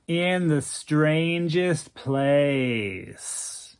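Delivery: airy drawl. Acted. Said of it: "in that airy drawl of his".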